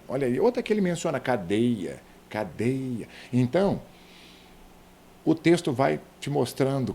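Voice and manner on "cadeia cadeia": "cadeia" stressed on DEI; penultimate stress. Shown as a demonstration. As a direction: lean on DEI in "cadeia", falling after. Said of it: "a penúltima sílaba". ("cadeia" com DEI tônico)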